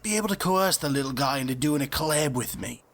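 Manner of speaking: Aussie wildlife host voice; hushed safari presenter; nature documentary. Acted.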